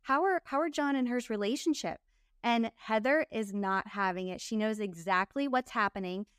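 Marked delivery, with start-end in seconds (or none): 0.0-2.0 probing questions. Retold or imitated. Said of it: "You know".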